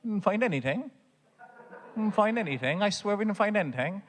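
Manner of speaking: put-on high, pleading kid's denial; mock innocent denial. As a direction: insist you're innocent, a touch whiny. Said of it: "She'll always deny it".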